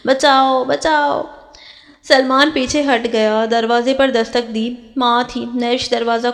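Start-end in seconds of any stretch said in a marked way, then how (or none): 0.1-1.2 crying for help. Acted. Bride cries out to wake the household, raised call. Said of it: "Mehwish زور زور سے چلانے لگی".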